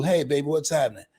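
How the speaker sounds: lightly voiced smooth talker boasting; playful mock pickup line; smooth kid DJ. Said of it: "your platter playing papa".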